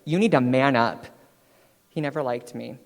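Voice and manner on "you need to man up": coach's demand. Retold or imitated. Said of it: "He's like".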